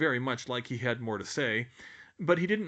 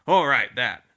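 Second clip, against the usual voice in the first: dark; 13 dB louder than usual. A narrator's reading. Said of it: "Hagrid said darkly".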